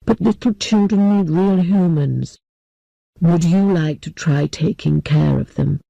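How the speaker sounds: put-on a gentle old man apologizing.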